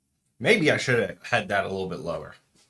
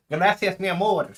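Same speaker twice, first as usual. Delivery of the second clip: fond thanks; 9 semitones higher, 4 dB louder than usual. Real, not acted. Thanking partner fondly.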